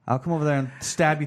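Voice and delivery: Wolverine. Acted. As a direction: play a gruff superhero with a thick Canadian accent. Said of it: "severely Canadian accent Wolverine".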